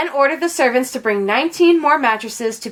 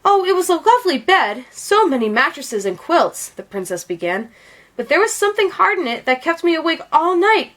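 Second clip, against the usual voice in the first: princess complaining; 3 semitones higher than usual. Acted. Princess complains of her night.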